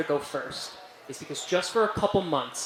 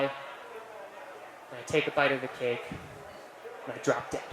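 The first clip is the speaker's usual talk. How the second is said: fading out; 3 semitones lower, 11 dB quieter, much slower than usual. Acted. Punchline death, fading out.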